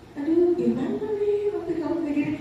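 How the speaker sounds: mock-sad sigh of a disappointed teacher; a touch of sorrowful sarcasm; sad, sarcastic teacher. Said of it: "agak-agak bersedih, menyindir". (guru pura-pura sedih sambil menyindir)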